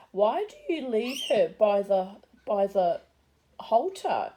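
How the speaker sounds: puzzled question in a lightly imitated Polish accent. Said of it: "in a strong Polish accent".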